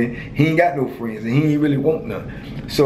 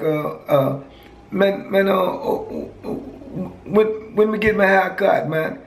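put-on raised, high-pitched Virgin Islands accent, brushing off the haircut; 6 semitones higher, slower than usual. Prison friend refusing a haircut, in a raised Virgin Islands accent. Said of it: "I liked his accent".

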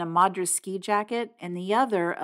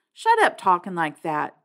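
louder, fierce rebuke; 4 dB louder than usual. Acted. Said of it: "Two-Bit said fiercely".

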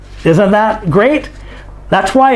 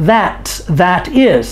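slow contraction demo; slower than usual. Shown as a demonstration. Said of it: "It's contraction".

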